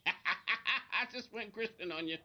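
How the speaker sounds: slow words through a laugh; amused at himself, laughing it out; chuckling while joking with chat. Real, not acted. Laughs at his own remark.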